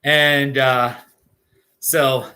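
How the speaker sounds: talking while blowing nose; words through a nose blow. Real, not acted. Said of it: "sorry, I'm blowing my nose now".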